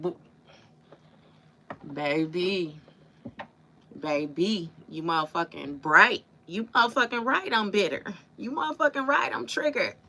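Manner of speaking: camp up the lyric, climbing in pitch; mock diva sing-song. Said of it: "She, she went".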